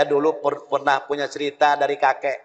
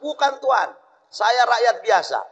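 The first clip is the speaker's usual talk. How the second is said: timid villager; 7 semitones higher than usual. Retold or imitated. Villager pleading with Dutch officer.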